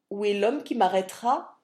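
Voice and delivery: loud challenging cry; defiant cry. Acted. Barry draws his sword and loudly challenges the constables. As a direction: dare them to come and arrest you. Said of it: "m'écriai-je".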